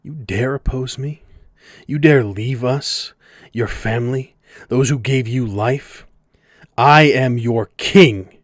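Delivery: slow, booming god-king roar; roaring tyrant king. Acted. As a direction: bellow it like an enraged king. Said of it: "he screams out".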